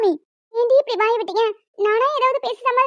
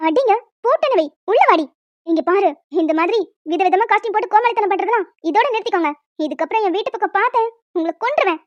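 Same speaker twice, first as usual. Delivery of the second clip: low, stern final warning; threatening mother; 3 semitones lower than usual. Acted. Mother warning the costumed group away. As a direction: warn them never to return.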